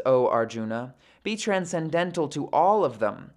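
measured, formal read-aloud of sacred text; composed audiobook-style recitation; scripture reading. Acted. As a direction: read the commentary out evenly, phrase by phrase. Reads numbered verses aloud.

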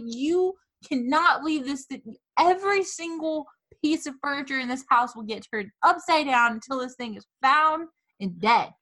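put-on yelling at her laughing boyfriend, outraged; mock outrage. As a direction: rail at him, scandalised. Furious rant at boyfriend.

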